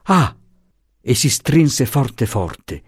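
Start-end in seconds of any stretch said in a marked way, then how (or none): 0.0-0.4 dismayed gasp. Acted. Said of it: "Poi fece".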